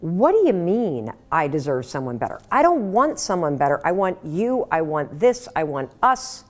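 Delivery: half-acted desperate outcry; pleading loudly "I want you"; mock scream. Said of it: "You want to scream".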